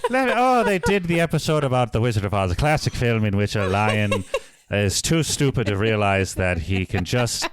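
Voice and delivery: put-on rambling questionable Irish accent; Liam Justice, Irish accent. Podcaster as the reviewer summing up the film, in mock Irish. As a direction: keep a light mock brogue going as you improvise. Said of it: "questionable attempt at an Irish accent".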